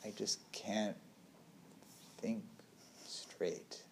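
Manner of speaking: groggy, barely voiced complaint; sluggish mumble. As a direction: drag the words out as if half asleep. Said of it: "So it's like the".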